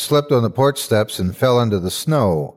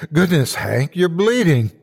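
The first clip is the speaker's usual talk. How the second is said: high, startled woman's voice; gasped alarm; 7 semitones higher than usual. A narrator's reading. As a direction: exclaim it in shock, pitch jumping up. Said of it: "Lucy gasped".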